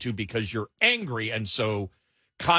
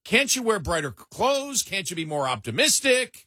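Elaine quote; 7 semitones higher than usual. Retold or imitated. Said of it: "Elaine on Seinfeld told her communist boyfriend".

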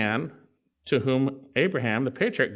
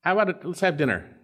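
casual buddy voice; 4 semitones higher than usual. Retold or imitated. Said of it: "Abraham could have said".

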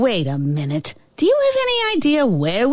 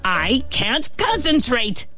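high, slow exasperated whine; frustrated; 6 semitones higher than usual. A narrator's reading. Ant distracted by chattering fly, frustrated. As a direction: draw it out at wit's end. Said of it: "The ant was so frustrated".

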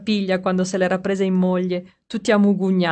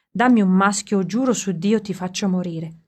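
desperate cry. Acted. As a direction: shout the threat at the earth. Carlo threatens the land.

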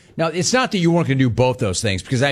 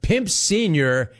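slow amused repeat; 6 semitones higher, slower than usual. Real, not acted. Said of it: "You mean my dad?".

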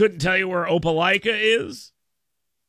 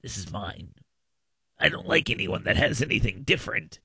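deep, much quieter growl of a greedy eater, quickening; mocking greedy internet user; 10 semitones lower, 5 dB quieter than usual. Host mocking a greedy social media follower, low possessive growl. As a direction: sneer it like a glutton guarding his plate. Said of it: "and you're going".

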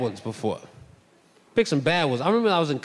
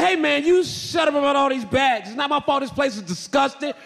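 retold angry retort; 7 semitones higher than usual. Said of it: "I said".

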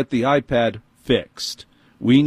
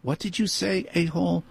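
pretend snapping back; 7 semitones higher, 7 dB quieter than usual. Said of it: "I didn't say that".

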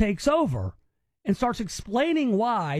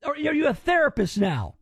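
higher, disbelieving; incredulous; 5 semitones higher than usual. Real, not acted. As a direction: scoff in disbelief. Host mocks interviewer's sympathy.

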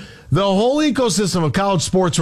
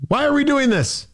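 worked up; 7 semitones higher than usual. Real, not acted. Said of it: "I'm all worked up".

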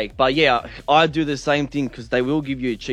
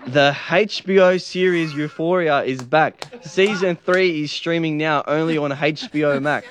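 a slow, half-hearted posh British read; attempted posh British. Co-hosts tell him to read the ad like the Queen, half-hearted posh British. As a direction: try a careful Queen's English, barely convincing. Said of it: "Go posh".

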